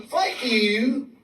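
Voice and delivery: lightly Southern thank-you, drawn out; mock a Southern pleasantry, falling on "kindly"; Southern expression. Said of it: "some dumb expressions in the South".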